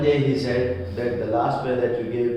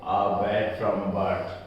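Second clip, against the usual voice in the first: put-on slow old man; 4 semitones lower, slower than usual. A narrator's reading. Teacher voicing the old bootmaker's slow lament. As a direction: draw it out like a weary craftsman. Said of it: "he continued slowly".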